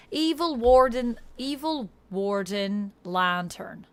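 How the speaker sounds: Australian attempt sliding into Irish; accidental Irish accent. Shown as a demonstration. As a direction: let the accent drift Irish. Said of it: "Now I'm becoming Irish".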